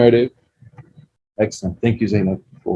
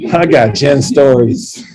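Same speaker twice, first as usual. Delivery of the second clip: playful boast; 3 semitones higher, 4 dB louder, slower than usual. Retold or imitated.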